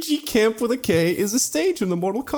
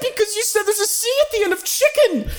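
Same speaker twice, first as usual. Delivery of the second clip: laughing; 13 semitones higher than usual. Real, not acted. Laughing argument over spelling.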